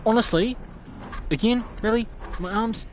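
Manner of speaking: loud, high indignant questions; fed up with the game; exasperated outrage. Real, not acted. Outraged after being attacked.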